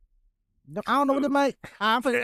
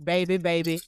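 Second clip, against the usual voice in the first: flat reading of lyrics; 6 semitones lower than usual. Pretend. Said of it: "Why you reading it like that?".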